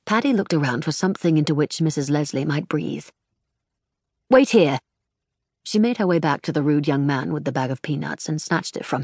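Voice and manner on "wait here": louder, brisk order; firm command. A narrator's reading. Paddy ordering the panting lady to wait, firmly. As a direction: tell her to stay put.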